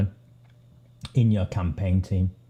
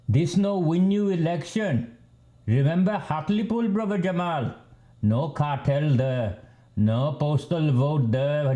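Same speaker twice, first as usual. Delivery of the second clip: mock Asian accent; 4 semitones higher than usual. Scolding brother Jamal over his campaigning in a mock Asian accent. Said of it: "And that was my Asian accent".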